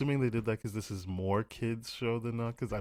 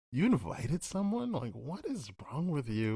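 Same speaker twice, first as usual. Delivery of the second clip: mock exasperated Kara; 5 semitones higher than usual. Mocking Kara upset at Jimmy.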